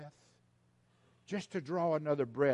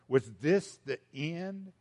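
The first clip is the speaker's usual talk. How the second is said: "Was this the end?" slow, with more voice, to the folks; slower, louder question; slower than usual. Acted. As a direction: ask it slowly and out loud to the crowd.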